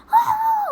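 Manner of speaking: a high, loud gamer shriek; high shriek copying a scared teen gamer; imitated scream. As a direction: mimic her brother screaming at a jump scare. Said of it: "tiba-tiba kayak".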